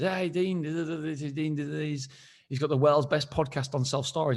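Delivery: imitating the host. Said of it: "he introduced me and said".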